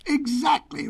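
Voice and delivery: high-pitched, emphatic lion; mild roar. A narrator's reading. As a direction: pounce on the word, lion-like. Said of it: "roared the lion".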